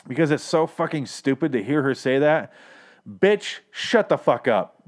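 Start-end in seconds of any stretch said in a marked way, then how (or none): 3.1-4.8 a slow, pointed telling-off; real anger. Real, not acted. Fed-up viewer telling Madison to stop talking, angry and slow. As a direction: snap at her like she's in the room. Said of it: "I'm actually getting mad".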